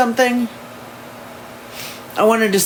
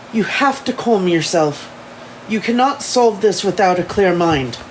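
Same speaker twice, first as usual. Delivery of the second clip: lightly attempted English accent; amateur English accent, measured and even. Elijah telling Samantha to calm herself, amateur English accent. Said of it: "my shitty English accent".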